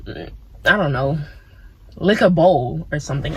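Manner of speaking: slow, low, dopey voice trailing off; lightly voiced goofy craving; mock urge voice. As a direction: drawl it like a silly craving. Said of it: "'cause an urge is something that you get, like".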